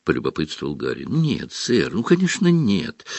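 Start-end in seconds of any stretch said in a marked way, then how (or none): 1.1-3.0 exclaiming elf. Acted. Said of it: "воскликнул эльф".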